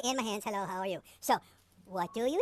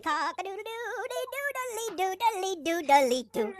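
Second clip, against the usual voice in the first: high crowing rooster; 6 semitones higher than usual. Pretend. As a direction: crow it like a rooster. Rooster in a children's song.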